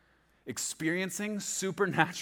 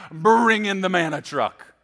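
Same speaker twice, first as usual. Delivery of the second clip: loud, drawn-out order, higher pitched; commanding call; 4 semitones higher, 8 dB louder, slower than usual. Acted. Preacher playing God ordering up provision, loud drawn-out call. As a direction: call it out slowly like a grand command.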